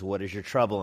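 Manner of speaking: a touch of tenderness, pitched low. Acted. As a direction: ease off and ask with some compassion. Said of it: "speaks to her more compassionately".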